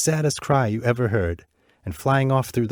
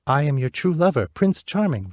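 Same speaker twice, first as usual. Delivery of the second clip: a hint of a comforting prince, higher; lightly voiced prince; 6 semitones higher, 3 dB louder than usual. Bird prince comforting the weeping princess, lightly voiced. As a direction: reassure her gently. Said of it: "replied the bird".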